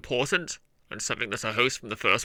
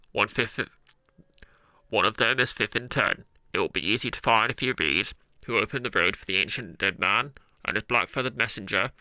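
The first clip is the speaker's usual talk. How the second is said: hand megaphone echo. Acted. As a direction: voice through cupped hands. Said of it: "I want to try and get an echoey effect".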